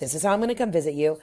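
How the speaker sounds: normal talking voice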